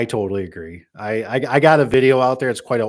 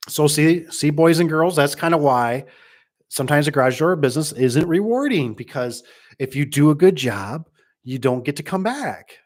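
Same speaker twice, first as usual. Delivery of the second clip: mock lecture; 3 semitones higher than usual. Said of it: "I'm joking".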